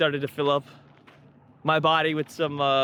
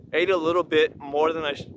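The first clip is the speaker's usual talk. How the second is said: words broken by a burp. Real, not acted. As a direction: cut off by a burp. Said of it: "as I'm burping".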